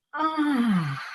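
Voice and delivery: long audible exhale through the mouth; a big cleansing sigh out; dramatic sigh. Shown as a demonstration. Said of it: "just like this".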